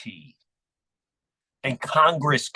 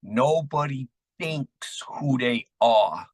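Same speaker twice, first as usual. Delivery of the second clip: put-on Jersey City accent; slower than usual. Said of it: "in a thick Jersey City accent".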